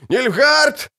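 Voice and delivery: намного выше, с дрожью в голосе; крикни высоко и испуганно; высокий дрожащий крик. Acted. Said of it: "крикнул солдат высоким, дрожащим голосом". (солдат в ужасе предупреждает лекарей)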